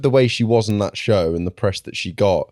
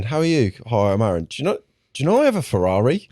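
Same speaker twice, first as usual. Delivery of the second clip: mock show-off; 2 semitones higher than usual. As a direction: brag like a smug poser. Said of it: "It's like going".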